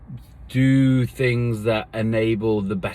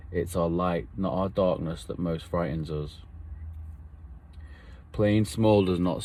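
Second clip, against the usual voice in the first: poem recital; 4 semitones lower, 6 dB quieter than usual. Retold or imitated. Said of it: "that kid stands up in the hall and he says it".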